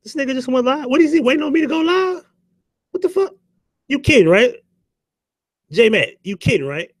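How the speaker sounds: mocking Teresa. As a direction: squeak it out like she can't believe it. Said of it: "Teresa herself said".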